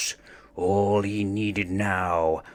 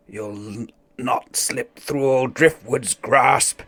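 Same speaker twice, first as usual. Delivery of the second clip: higher, louder shouts and honks; frantic chase; 3 semitones higher, 3 dB louder than usual. Acted. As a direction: scramble after the goose in a panic. Chaotic goose chase.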